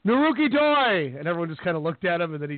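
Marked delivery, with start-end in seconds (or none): 0.1-1.2 high, loud, drawn-out chant; slow solo crowd chant, raised high; imitated lone fan yell. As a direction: holler the whole name slowly like an awkward fan. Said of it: "got quiet and he goes".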